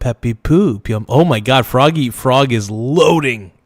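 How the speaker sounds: usual speaking voice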